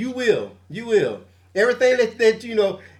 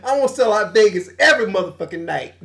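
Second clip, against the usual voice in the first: laughing mock boast; 2 semitones higher than usual. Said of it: "He's like".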